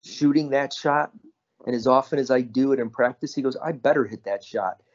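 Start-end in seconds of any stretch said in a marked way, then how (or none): 0.0-3.3 lightly imitated matter-of-fact athlete; deadpan. Bird answering a reporter after his game winner, deadpan. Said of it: "Bird looks at him deadpan". 3.6-4.8 understated, retold athlete's reply; deadpan. Bird repeating his answer to a reporter, deadpan. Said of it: "Bird looks at him deadpan".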